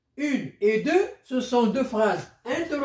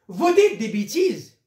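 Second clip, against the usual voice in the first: a louder exclaiming read; exclamation; 5 dB louder than usual. Shown as a demonstration. Teacher showing an exclamative sentence to pupils, louder. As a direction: exclaim it at the listener. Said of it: "point d'exclamation".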